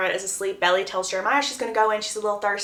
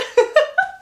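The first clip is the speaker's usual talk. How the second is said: high squealing laugh; giddy laugh; 4 dB louder than usual. Real, not acted. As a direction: burst into a delighted laugh. Giddy laugh after gushing.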